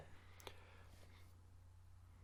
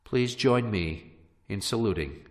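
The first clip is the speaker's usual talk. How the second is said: faltering tender eulogy=69. Acted. Mock funeral eulogy continues.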